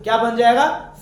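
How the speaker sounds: क्या बन जाएगा called out loud to the class. Shown as a demonstration. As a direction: ask the class loudly. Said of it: "फिर से सुन लो". (कक्षा से ज़ोर से पूछना)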